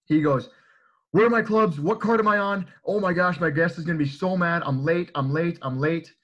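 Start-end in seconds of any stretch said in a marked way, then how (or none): 1.1-6.1 imitating a panicked man, higher and louder at first; frantic mock panic, easing slightly towards the end; freaking out. Drunk club member storms out to two staff, freaking out. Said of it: "he's freaking out".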